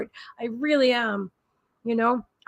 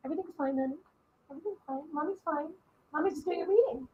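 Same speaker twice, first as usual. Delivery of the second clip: very soft reassurance to a pet; hushed mommy talk; soothing pet talk; 3 semitones higher, 10 dB quieter, faster than usual. Real, not acted.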